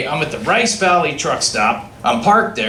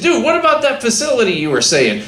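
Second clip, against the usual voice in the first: mock shouted demand; 6 semitones higher than usual. Arguing with scale master.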